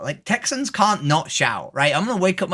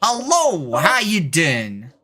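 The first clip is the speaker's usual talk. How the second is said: hammed-up Texas accent, lightly done; a Texan playing it up, drawling the vowels. Streamer performs a Texas accent for chat, hammed-up. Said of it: "You want me to do a Texas accent?".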